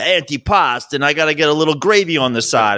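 lightly mimicked Jersey Italian accent; New Jersey Italian accent. Showing how Jersey talks, mock Italian-American accent. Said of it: "But in Jersey, it's so much".

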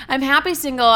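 mean every word of "I'm happy single"; convincing. Real, not acted. Correcting her unconvincing take, now said with real conviction. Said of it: "so unconvincing".

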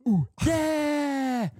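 high loud hype calls; high excited whoops; party whooping. Acted. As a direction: whip up a party crowd. Party cheering.

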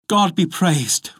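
high, drawn-out relief; joyful. A narrator's reading. Wife hearing of horsemen coming, joyful. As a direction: let relief lift the pitch. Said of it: "replied the poor wife joyfully".

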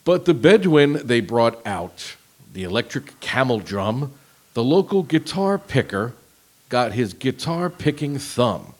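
slow flat robotic reading. Shown as a demonstration. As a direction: read lyrics like a robot. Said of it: "read it in kind of a robotic voice".

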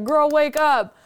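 retold call to rouse a sleeper; urgent wake-up call. Guide waking the dreamer from a nightmare, urgent call.

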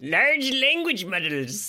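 slow, grand announcer read; grand slow announcement. Acted. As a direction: savor each word like a trailer voice. Echoing with grandeur.

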